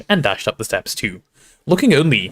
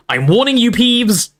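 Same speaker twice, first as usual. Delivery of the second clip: high, louder stern warning; Professor McGonagall shouting; 11 semitones higher, 5 dB louder than usual. A narrator's reading. Professor warning Peeves, indignant shout. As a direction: warn him at the end of your patience. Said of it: "shouted Professor McGonagall".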